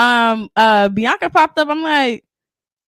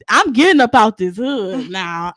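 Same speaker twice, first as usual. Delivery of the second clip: determined vow; 4 semitones lower than usual. Retold or imitated. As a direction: lay it down slowly and firmly. Vowing to escape the hood.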